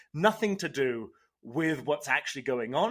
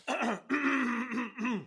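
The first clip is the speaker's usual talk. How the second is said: throat clearing; 9 semitones higher than usual. Pretend. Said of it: "Let me show you".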